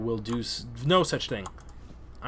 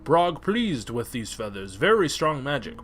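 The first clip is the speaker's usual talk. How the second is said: lightly voiced ogre. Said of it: "Brog accepts the feathers".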